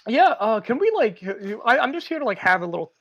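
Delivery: high, loud, halting officer; imitated hesitant cop. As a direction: stumble through it as an awkward cop. Voices the cop stumbling through request.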